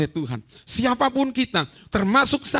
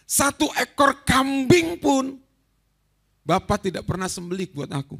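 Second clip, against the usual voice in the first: resentful son; 5 semitones higher, 4 dB louder than usual. Retold or imitated. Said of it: "anak sulung ini marah".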